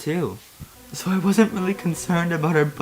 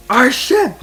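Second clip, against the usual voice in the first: high dismayed wail; 11 semitones higher, 7 dB louder than usual. Acted. Mace wailing about ship.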